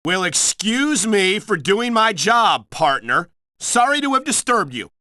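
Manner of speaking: slightly miffed mock politeness; sarcastic apology. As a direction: apologize to your partner as if slighted. Offended reply to partner, mock apology.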